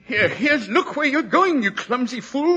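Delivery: put-on angry old man. Old book collector scolding Watson for knocking his books. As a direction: bark at the man who bumped you.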